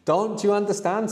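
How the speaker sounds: high questioning tune through "understand"; negative question. Shown as a demonstration. Teacher setting a negative question, voice high on "understand". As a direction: pitch "Don't you understand" up as a question. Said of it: "So a negative question now".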